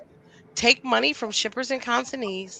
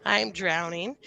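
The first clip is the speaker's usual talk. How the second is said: slow and drowning; 5 dB louder, slower than usual. Real, not acted. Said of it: "let's just say I'm drowning".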